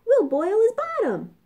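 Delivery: high, loud gleeful pig voice; gleeful chuckle. A narrator's reading. Pigs plot against the wolf, high and gleeful. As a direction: gloat like cheeky piglets. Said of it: "they chuckled".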